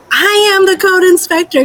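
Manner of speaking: over-pronounce each word like the listener is deaf; mock slow yelling. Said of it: "why is she yelling at me?".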